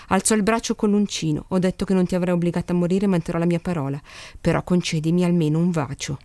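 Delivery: reading a novel aloud, even pace; story narration. A narrator's reading. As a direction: narrate the passage calmly, voicing characters lightly. Reads a novel passage aloud.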